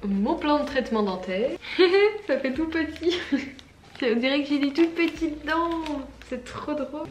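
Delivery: laughing through the words; amused giggling. Real, not acted. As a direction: giggle while you talk. Watching her treatment plan, laughing.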